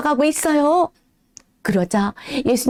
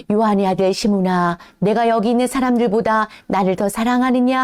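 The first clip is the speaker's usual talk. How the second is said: lower, calm tender question; gentle Jesus; 3 semitones lower than usual. Acted. Jesus asking Peter if he loves him, low and tender.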